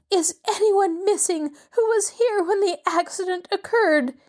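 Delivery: high, sharp demand. A narrator's reading. Mrs Willoughby to the guests, demanding. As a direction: challenge the staring guests. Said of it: "she demanded".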